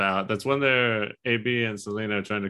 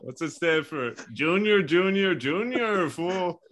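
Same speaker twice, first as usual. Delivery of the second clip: Chicano dad calling out; 8 semitones higher, slower than usual. Pretend. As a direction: call the kid like a hammed-up dad.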